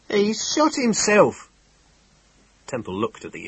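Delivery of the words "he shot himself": high, slow, horrified telling. Acted. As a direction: spell out the horror slowly. Innkeeper reporting death.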